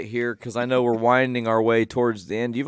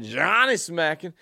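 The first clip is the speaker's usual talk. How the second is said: put-on slow, high kid voice quote; imitating Ollie; 5 semitones higher, slower than usual. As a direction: copy the kid's slow delivery. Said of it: "he says it just like that".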